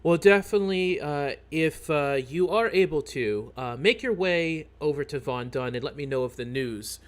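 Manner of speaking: hesitant, halting shopkeeper voice; a nervous townsman asking a favor; worried shopkeeper. Acted. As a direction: fret politely as a troubled merchant. DM voicing a worried shopkeeper NPC.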